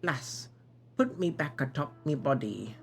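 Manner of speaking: put-on game knight with a Scottish accent. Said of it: "I started with a Scottish accent".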